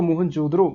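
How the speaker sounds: मोहनजोदड़ो with short "da", flapped "ro"; English-style pronunciation. Shown as a demonstration. Teacher shows students the English pronunciation, मोहनजोदड़ो with short "dro". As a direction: say मोहनजोदड़ो ending in a quick "dro". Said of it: "इसका English pronunciation करते हो".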